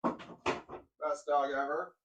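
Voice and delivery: drawn-out, slow praise for a dog; slow doting praise. Real, not acted. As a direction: stretch every word out lovingly.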